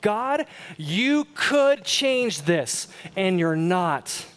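a wife retelling her angry prayer, slow and pleading; retold angry prayer. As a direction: plead with God in frustration, word by word. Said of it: "she was just plain angry".

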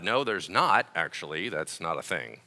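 low, softening flat refusal; deadpan dismissal. Acted. Pastor answering an imagined objector, deadpan and low. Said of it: "He's like".

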